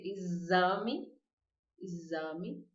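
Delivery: "exame" with the X said as a buzzing Z. Shown as a demonstration. Teacher showing Portuguese X as Z. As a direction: stress the Z sound in "exame". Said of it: "como se fosse Z".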